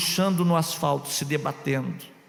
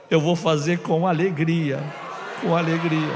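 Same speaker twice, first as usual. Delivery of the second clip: crying out a promise. Retold or imitated. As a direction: cry it out with all your heart.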